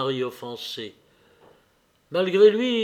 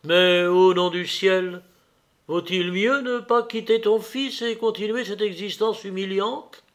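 impassioned plea; 6 semitones higher, 4 dB louder than usual. A narrator's reading. Vronsky pleads with Anna.

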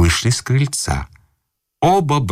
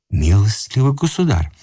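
desperate cry; 9 semitones higher than usual. A narrator's reading. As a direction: cry out at his wits' end. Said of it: "закричал ... в отчаянии".

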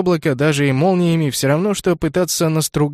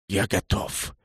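much softer, lower breath of words; whispered; 6 semitones lower, 8 dB quieter, slower than usual. A narrator's reading. Mist-dragon whispering into Kenneth's ear, soft and low. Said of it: "прошептал Кеннету на ухо туман".

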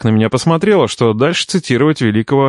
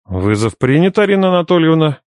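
predatory promise; 6 semitones higher than usual. A narrator's reading. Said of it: "хищно пообещал я".

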